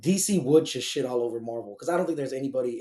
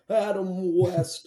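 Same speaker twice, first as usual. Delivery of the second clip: high, drawn-out comic impression; Adam West; 6 semitones higher, much slower than usual. Fan imitating Batman actor's hilarious talk, exaggerated impression. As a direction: draw the name out hilariously, pitched up. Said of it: "Adam West talked hilariously".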